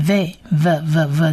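v repeated as a lone consonant sound; soft v sound. Shown as a demonstration. Teacher showing how this letter is read, repeated v. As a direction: sound out v in short separate repeats. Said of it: "可是念v".

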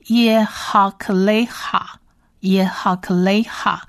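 耶哈克雷哈 in measured, separate syllables; syllable-by-syllable demo. Shown as a demonstration. Teacher completing the Hebrew word, careful 耶哈克雷哈. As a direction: sound out 耶哈克雷哈 carefully to its final 哈. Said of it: "所以是哈".

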